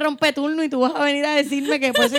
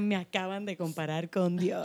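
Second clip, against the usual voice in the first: smug doctor post; 3 semitones lower, 10 dB quieter, slower than usual. Retold or imitated. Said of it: "en Instagram".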